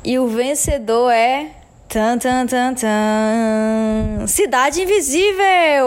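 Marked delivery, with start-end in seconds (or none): 1.9-5.8 drumroll, then a big excited reveal; hyped giveaway announcement. Real, not acted. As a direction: build suspense, then announce the winner. Reveals the award winner.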